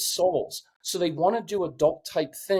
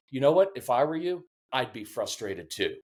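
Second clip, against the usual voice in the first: a parent calmly showing they get it; validating parent; 4 semitones lower than usual. Shown as a demonstration. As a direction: drop your voice and really mean it. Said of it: "I'd rather come in and say".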